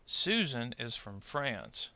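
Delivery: slow, with stress on "Susan" and "France"; sentence stress. Shown as a demonstration. Teacher models sentence stress for learners, slowly stressing "Susan" and "France". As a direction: lean on SU in "Susan" and on "France", lighter "is from". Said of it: "stressed syllable in the content words".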